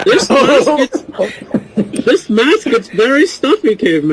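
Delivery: lightly voiced masked villain, slow start; a hint of a villain griping through a mask; Bane impression. Teasing Caveman about his stuffy mask, lightly voiced Bane. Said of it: "go to Bane for clearing his throat while he's wearing a mask".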